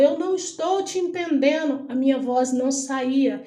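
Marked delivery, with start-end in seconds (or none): 0.0-1.9 retold yell. Doctor telling the dreamer she can't understand, retold yell. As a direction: imitate someone calling out, voice raised in pitch. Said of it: "Ela gritava".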